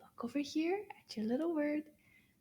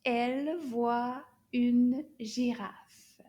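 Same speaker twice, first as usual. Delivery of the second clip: slow whispered repetition; 4 dB louder, much slower than usual. Shown as a demonstration.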